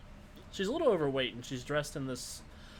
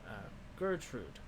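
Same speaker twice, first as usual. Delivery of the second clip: put-on wizened old crone. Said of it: "wizened old crone voice".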